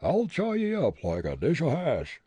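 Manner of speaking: loud, high backwoods bully voice; blustering ruffian. Acted. Bully Jake to tavern keeper, loud blustering bully. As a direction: bluster like a brawler itching for a fight.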